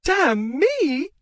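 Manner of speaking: very high, loud scream. Acted. Wife screaming at husband in the passage. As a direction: scream it back at him. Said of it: "the woman screamed".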